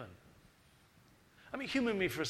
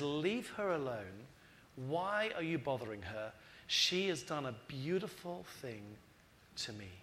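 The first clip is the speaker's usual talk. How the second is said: gentle rebuke; 3 semitones lower, 4 dB quieter than usual. Retold or imitated. Jesus defends the woman.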